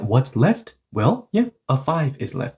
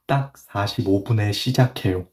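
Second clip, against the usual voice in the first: quicker, phrases run together; connected model sentence; 3 semitones lower, much faster than usual. Shown as a demonstration. Teacher models the whole sentence for learners, quicker and joined up. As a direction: say it in one smooth run. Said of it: "say it like this".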